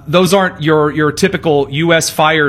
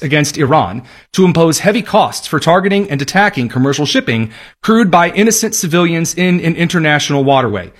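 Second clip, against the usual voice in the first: sultry reading voice. Acted. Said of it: "I'll read it to you in my sultry reading voice".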